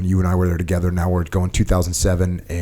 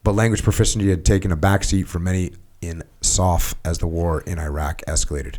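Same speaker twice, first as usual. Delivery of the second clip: steady, slightly lifted read-aloud voice; reading aloud from a book. Acted. Host reading a book passage to his guest, read-aloud voice. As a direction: read the written account evenly, phrase by phrase.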